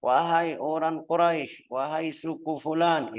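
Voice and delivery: mild retold calling out to the clans. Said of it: "teriak atau manggil". (seruan lantang yang diceritakan)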